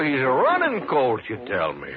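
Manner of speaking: sneering, teasing mock-admiration; mocking sarcasm. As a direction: needle the old man with false praise. Mocking the old man.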